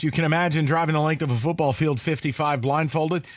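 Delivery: steady, measured sponsor pitch; host reading a live commercial; radio ad read. Real, not acted. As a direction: sell it straight to the listener. Reads a sponsor ad.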